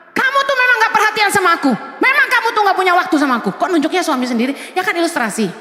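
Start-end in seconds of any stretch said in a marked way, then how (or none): 0.1-3.5 quick scolding nagging, fast; mock angry wife. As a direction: rattle off complaints like a cross wife. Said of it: "Marah-marah". (istri marah-marah, cepat)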